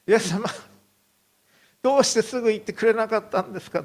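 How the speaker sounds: high, fast cry of disbelief; anguished protest. Retold or imitated. Grieving father cries out to Jesus in anguish. Father hears daughter died.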